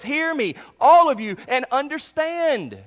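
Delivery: high, loud, slow proclamation; voicing Jesus. Jesus addressing the crowd, a high loud proclamation. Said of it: "he says it in verse fourteen like this".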